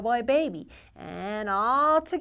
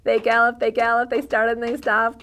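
lively gallop rhythm; 3 semitones higher, 10 dB louder, faster than usual. Acted. Librarian acts out galloping horse.

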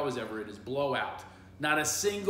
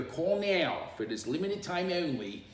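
higher Philly-accented TV commercial pitch; Philadelphia accent; 6 semitones higher, 3 dB louder than usual. Shown as a demonstration. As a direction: sell it like a local Philadelphia ad. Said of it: "That's a Philadelphia accent".

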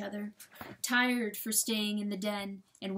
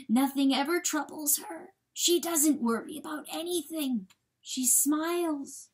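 high, slowing, anguished insistence; desperate insistence; 6 semitones higher, 3 dB louder than usual. A narrator's reading. Coyote describing his wife to John, desperate insistence. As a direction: insist it, clinging to denial.

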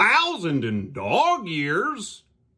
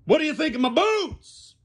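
much higher, louder demand; insistent shout; 13 semitones higher, 4 dB louder than usual. Acted. Puppet demanding Damien praise his boots. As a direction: press him for an answer. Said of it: "repeated louder, higher".

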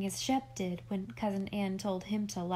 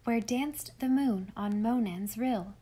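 rhythmic recitation. A narrator's reading. A girl reading Scott aloud to her uncle, rhythmic recitation. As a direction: ride the strong beat of the verse. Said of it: "steadied by the strongly marked rhythm".

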